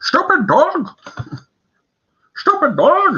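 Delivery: put-on very high, swooping cartoon old-man voice. Showing the group a cartoon voice he can do, Courage the Cowardly Dog old man voice. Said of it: "I can do the old man's voice".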